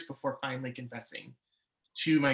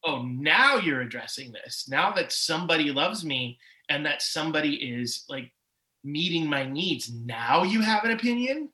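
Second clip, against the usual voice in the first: angry at God; 3 dB louder than usual. Retold or imitated. Railing at God for speaking up now, angry. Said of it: "really upset and really angry at God".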